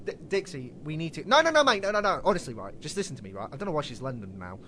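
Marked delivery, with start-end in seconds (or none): 0.1-3.5 a loose, hammed-up American accent, pleading "mate"; half-hearted American accent begging to be heard; mock American accent. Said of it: "You do a better American accent than me".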